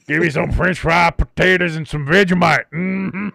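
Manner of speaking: a confused fake Australian accent; bad Australian accent. Host mangling an Australian accent for laughs, hammed-up. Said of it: "It ain't Australian".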